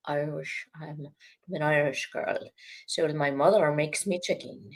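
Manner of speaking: lightly attempted Irish accent, a little low. Shown as a demonstration. Reciting a poem for a co-host, tentative Irish accent. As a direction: try on a bit of Irish. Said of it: "How about an Irish accent? Let me try that".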